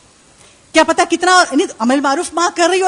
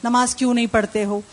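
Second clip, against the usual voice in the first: mother urging; 3 semitones lower than usual. Retold or imitated. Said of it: "ماں نے کہا".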